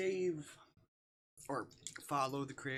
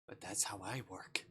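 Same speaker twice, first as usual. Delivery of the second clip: whisper; 4 semitones lower than usual. Acted. Voicing a game character's line.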